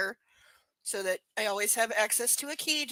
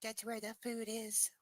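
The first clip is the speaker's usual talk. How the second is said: breathy secret whisper; 2 semitones lower, 13 dB quieter than usual. Pretend. Whispered aside for dog.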